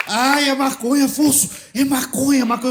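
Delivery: high-pitched mock swoon of alarm; feeling faint. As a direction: wail it like a mother taken ill with shock. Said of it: "ela começou a passar mal". (mãe passando mal, imitada)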